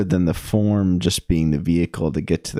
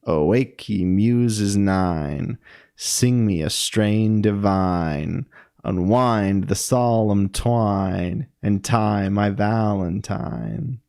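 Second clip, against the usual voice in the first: slow, sing-song verse reading; drawn-out, lilting poem recital; lilting iambic recitation; much slower than usual. Shown as a demonstration. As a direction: chant the meter, stretching each stressed beat. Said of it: "how it gives it that sound".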